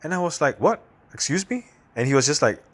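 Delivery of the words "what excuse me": shocked disbelief. Retold or imitated. Stunned by a stranger's remark.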